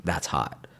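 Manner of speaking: low, lightly imitated socialite catchphrase; Paris Hilton. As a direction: drop the pitch for a mock celebrity catchphrase. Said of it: "like Paris Hilton".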